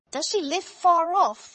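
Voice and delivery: high, loud, drawn-out wolf voice; wolf's question. A narrator's reading. Wolf asks girl about grandmother's house, high slow probing. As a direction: stretch the question out, pitched high.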